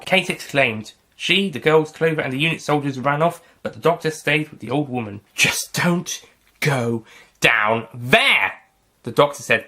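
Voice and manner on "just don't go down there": panicking whisper. Acted. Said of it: "panicking a little".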